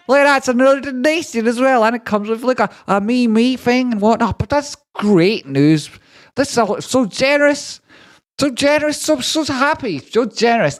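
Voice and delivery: a syrupy, over-the-top thank-you voice reading out donations; gushing high voice. Acted. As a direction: streamer hamming up thanks in a squeaky high voice. Reads donations in put-on voice.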